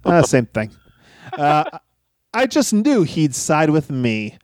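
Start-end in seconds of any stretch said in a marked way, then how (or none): 2.3-4.4 sarcastic. Acted.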